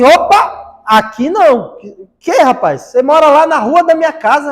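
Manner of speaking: loud, high-pitched objection; indignant protest. Retold or imitated. Man at the table confronts his churchgoing neighbour, indignant and loud. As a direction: retell a neighbour calling someone out, loudly. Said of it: "o rapaz se manifestou".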